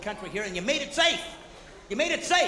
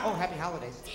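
low, softened mock-polite greeting; timid greeting; 7 semitones lower, 6 dB quieter than usual. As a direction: offer it meekly, as if afraid to offend. Timid holiday greeting acted out.

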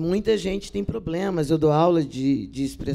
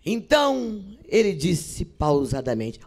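slow, deliberate mock-actor narration; measured, overdone stage delivery; mock stagey actor; slower than usual. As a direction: imitate an actor pausing pointedly. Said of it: "canso de ver atores falando assim".

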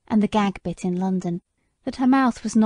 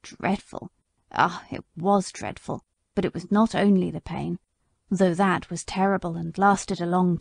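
a hint of a wounded old horse remembering; bitter old horse; 2 semitones lower than usual. Sir Oliver's lament continues.

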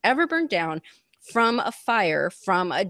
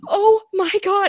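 retold shock; 11 semitones higher, 7 dB louder than usual. Shock at the news.

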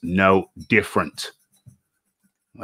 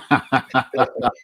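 higher-pitched string of ha-has; delighted laugh; 4 semitones higher than usual. Real, not acted. Host reacting to guest still having fans, higher laugh. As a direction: laugh along happily.

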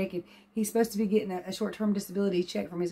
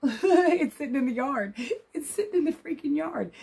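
laughing; 8 semitones higher than usual. Real, not acted. New car arrived, laughing.

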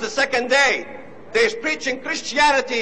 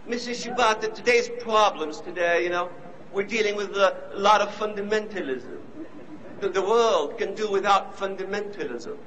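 lightly imitated English accent, lower and softer; 3 semitones lower, 4 dB quieter than usual. Interviewer trying to help a colleague, mock English accent. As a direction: put on a hint of a measured English accent. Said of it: "with that English accent".

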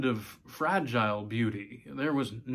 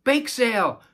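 much higher, loud delighted squeal; squealing child; 12 semitones higher, 9 dB louder than usual. Acted. Little girl spotting the bake sale, excited squeal. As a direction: squeal it with joy. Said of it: "Caroline squealed".

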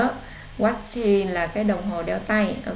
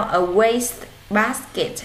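slow model reading; much slower than usual. Shown as a demonstration. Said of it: "teacher modelling word slowly".

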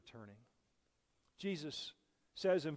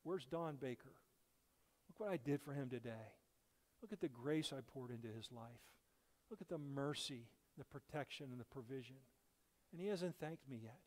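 a hint of the Lord's sorrow, softer; gentle mock lament of a forgotten Savior; lightly voiced hurt Lord; 5 dB quieter than usual. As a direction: let the Lord sound quietly wounded. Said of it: "the Lord would say".

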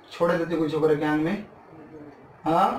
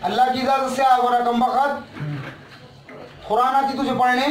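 angry scolding; 5 semitones higher, slower than usual. Real, not acted. Exorcist shouting at the spirit, angry. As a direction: confront him hard.

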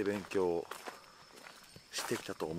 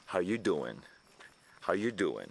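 Joey's line; much slower than usual. Retold or imitated. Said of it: "ちょっと面白く言う".

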